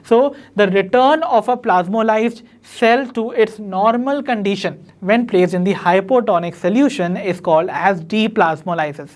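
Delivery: slow, deliberate note-taking pace; teacher reading a definition aloud for notes; slow dictation. Shown as a demonstration. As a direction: dictate each word so students can write it down.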